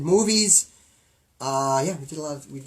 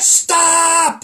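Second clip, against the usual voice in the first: high, loud cry of stop; shouted stop; 11 semitones higher, 9 dB louder than usual. Real, not acted. Host yelling at co-host to drop the meme topic, loud. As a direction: cut him off hard. Stopping his co-host's meme talk.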